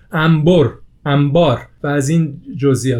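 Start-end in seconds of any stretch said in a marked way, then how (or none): 0.1-0.7 انبر pronounced ambor; nun as mim. Shown as a demonstration. Host giving an example, nun pronounced as mim. 1.0-1.6 انبار pronounced ambar; nun as mim. Shown as a demonstration. Host giving another example, nun pronounced as mim.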